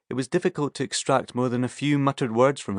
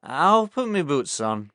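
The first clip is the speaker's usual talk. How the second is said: put-on slow drunken Yorkshireman; 4 semitones higher, slower than usual.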